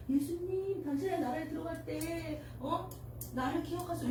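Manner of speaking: 당신의 said softly, a quiet timid plea; the thief asking Jesus in a tiny voice; small quiet voice. Shown as a demonstration. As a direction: murmur it like a shy request. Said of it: "이렇게 조그맣게 얘기했겠어요?".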